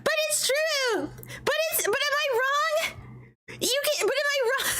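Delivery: real laughing protest. Real, not acted. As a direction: plead through helpless laughter. Laughing protest, high and cracking.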